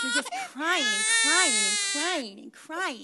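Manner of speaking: "crying" drawn out slowly, over and over; exasperated repetition. Pretend. Mother to the wailing baby, exasperated. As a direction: stretch each "crying" in mock despair.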